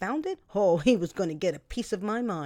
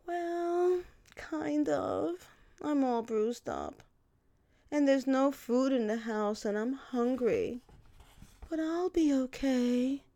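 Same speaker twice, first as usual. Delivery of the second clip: higher, slow pitiful whine; milking it; 5 semitones higher, slower than usual. Retold or imitated. Milking sympathy from the apologetic boyfriend, mock pitiful. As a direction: play the poor victim for sympathy. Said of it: "was I gonna milk this?".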